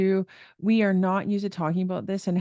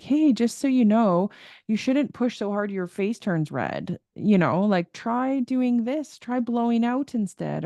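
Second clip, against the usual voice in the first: lightly voiced, higher-pitched parent advising a child; parental coaching; 4 semitones higher than usual. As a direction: coax a kid gently with a lilting tip. Mother voicing tips to her kids.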